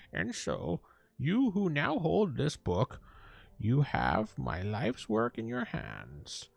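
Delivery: slow, lightly voiced old wizard; old man voice. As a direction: read it as a frail old man. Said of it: "we could do an old man voice".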